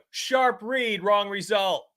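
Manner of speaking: "Sharp read, wrong result" tossed off high and quick like a stock excuse; high, scornful "Sharp read, wrong result"; high mocking parrot. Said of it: "What do we do?".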